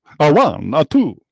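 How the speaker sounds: exaggerated, over-the-top, put-on vampire-style Russian accent. Counting aloud while working through a task, Count Dracula accent. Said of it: "what's that like Count Dracula?".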